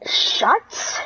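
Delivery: drawn-out whispered hiss; retold whisper. Classmate silencing the storyteller, whispered. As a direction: whisper it with a long hissed start.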